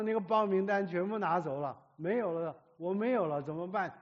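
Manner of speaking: put-on distressed girl's cry. Girl classmate crying over form.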